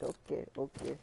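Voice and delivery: softly conceding, imitated; giving in. Speaker yielding to cousin at the door, soft concession. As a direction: back down quietly after being shooed.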